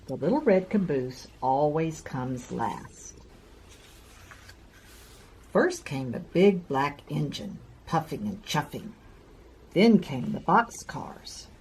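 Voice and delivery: gentle storybook read-aloud; reading to children. A narrator's reading. Reads a picture book to children.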